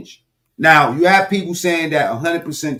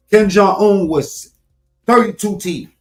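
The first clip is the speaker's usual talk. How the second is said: loud, high, slow excited telling; excited buildup; 7 semitones higher, 3 dB louder, slower than usual. Real, not acted. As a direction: paint the grin gleefully. Excited description of smile.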